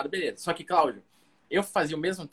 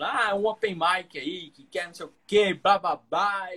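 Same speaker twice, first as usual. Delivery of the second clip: mock big-voiced man, raised and drawn out; slow, higher-pitched caricature of a thick voice; imitating gruff voice; 4 semitones higher, slower than usual. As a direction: imitate a gruff guy rambling, stretching the words. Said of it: "a voz dele, que é grossa".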